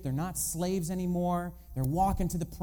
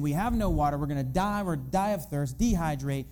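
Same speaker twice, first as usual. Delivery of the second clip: lightly dramatised whining of a thirsty crowd; retold grumbling, punched at the end; mock complaining. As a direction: pile up the complaints with mild mock desperation. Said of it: "they're complaining".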